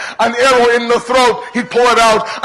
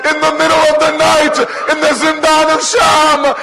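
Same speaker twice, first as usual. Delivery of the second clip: rising wail; 4 semitones higher than usual. Acted. Grief rising in the recitation.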